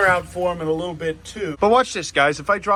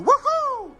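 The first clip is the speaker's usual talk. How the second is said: high, bright cheer; playful whoop. Retold or imitated. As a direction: whoop like you're lifting a pet. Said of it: "picking this man up and going".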